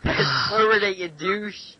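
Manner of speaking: loud, high demand that drops off at the insult; exasperated yell. Real, not acted. Yelling at a friend who won't fast forward the video, exasperated. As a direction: shout it at him, fed up.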